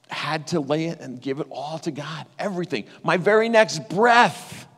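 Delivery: real tears pressing behind the words; holding back tears. Real, not acted. Pastor on his near-death surgery, holding back tears. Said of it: "I'm gonna try not to cry".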